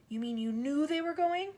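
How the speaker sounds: put-on high hurt little girl; upset child. A narrator's reading. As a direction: accuse her in shock. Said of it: "Matilda cried".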